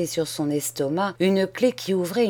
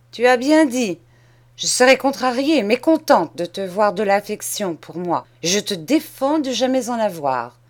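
put-on raised, hard voice of a mean old cousin; harsh scolding; 2 semitones higher, 4 dB louder than usual. Mean cousin forbids the boy any affection, harsh and raised. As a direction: scold him loudly from above.

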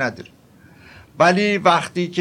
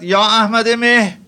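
a mild mock shout of the name, drawn out; retold call out; 4 semitones higher, 3 dB louder than usual. Sheikh summoning Ahmad-e Meh before the disciples, mild retold call. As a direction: call the disciple across the room, lightly. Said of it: "فریاد زد".

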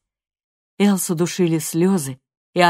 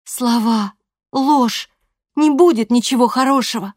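much higher and louder, near shouting; furious threat; 8 semitones higher, 7 dB louder than usual. A narrator's reading. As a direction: threaten her mother at full pitch. Loredo's bitter outburst alone.

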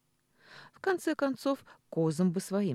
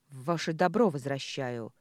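цыкнула. Acted. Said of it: "цыкнула на неё Маша".

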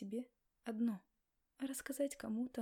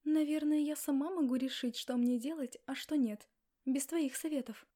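loud, higher, indignant wife; angry retort; 3 semitones higher, 7 dB louder than usual. Acted. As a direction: throw it back at him loudly. Wife snaps back at husband.

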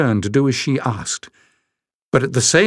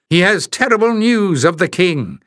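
roared report; 7 semitones higher than usual. Acted. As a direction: announce it like a rough warrior. Giant woman continues announcing.

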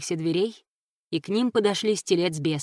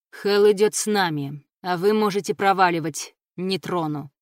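through gritted teeth; 3 dB louder than usual. Acted. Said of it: "процедил Ив сквозь зубы".

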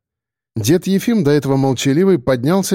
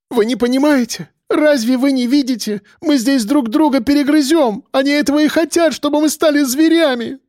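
высоко, взволнованно; взывай к остальным в отчаянии; дрожащим голосом; 12 semitones higher than usual. A narrator's reading. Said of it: "Голос её дрожал". (Евгения взволнованно убеждает барак)

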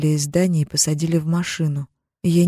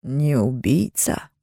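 very slow, low chilling echo; husband mocks her words coldly; 4 semitones lower, 3 dB quieter, much slower than usual. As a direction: repeat her words with icy menace. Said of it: "говорит таким тоном".

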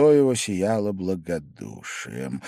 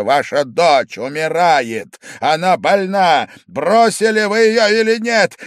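shouting; 8 semitones higher, 8 dB louder than usual. A narrator's reading. Angry father figure shouts at the drunk guest. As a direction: shout over him without listening. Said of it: "кричал, не слушая".

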